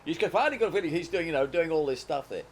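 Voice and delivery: mock an Italian dubbing actor, hammed-up; Italian dub voice. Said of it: "this sort of Italian Pete Roseform".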